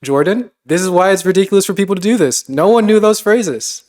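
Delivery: loud, exasperated protest at the jargon; exasperated outburst. Real, not acted. Host protesting the Greek words to the guests, loud and exasperated. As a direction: throw up your hands and complain loudly.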